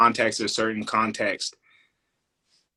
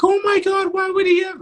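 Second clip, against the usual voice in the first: high, loud imitation of shocked critics; exaggerated scandalized outcry, pitched way up; mock outrage; 8 dB louder than usual. Critics reacting to backlash over a kid onstage, mock outrage.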